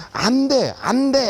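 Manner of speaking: teacher loudly refusing the pupils; firm refusal. Retold or imitated. Refusing the boys firmly.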